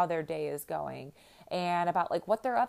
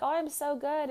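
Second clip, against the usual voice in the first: much higher, sing-song answer; cheery reply; 10 semitones higher than usual. Retold or imitated. To the barista, high sunny reply. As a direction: answer back all sunny. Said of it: "I'm like".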